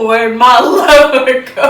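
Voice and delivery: loud mock country accent; hammed-up country accent. Vlogger redoing the teased line from a rapper, hammed-up country accent.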